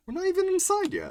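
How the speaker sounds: high, loud, rushed exclamation; excited outburst. Real, not acted. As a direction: blurt it out in a panic. Panicked outburst at narration.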